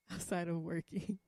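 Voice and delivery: sheepish chuckle on "outside of working"; laughing correction. Real, not acted.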